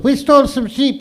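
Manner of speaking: high meek reply; a sheepish high answer; immigrant answering. Retold or imitated. Immigrant giving his name to an officer, high and meek.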